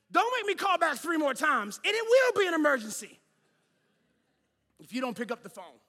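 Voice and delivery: high, shouted comic threat; hammed-up furious caller; exasperated outburst. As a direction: blow up at whoever won't answer, then drop off. Acted threat to doctor's office.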